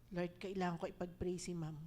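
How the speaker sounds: soft unvoiced whisper to God; whispered prayer. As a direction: breathe it as a private prayer. Silent inner prayer. (pabulong na dasal)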